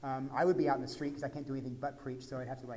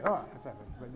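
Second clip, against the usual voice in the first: understated Texan; 3 semitones lower, faster than usual. Pretend. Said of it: "Texans don't scream".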